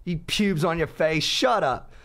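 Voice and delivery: high-pitched mock British woman telling someone off; British accent. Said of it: "five British girls walk in".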